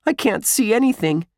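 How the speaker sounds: high-pitched, distressed exclamation; alarmed cry. Acted. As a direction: protest from the pitch dark. Trapped boy alarmed in the dark.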